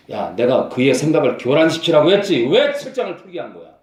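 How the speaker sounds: Satan scolding. Acted. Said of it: "사탄이 아주 꾸짖었을 거예요".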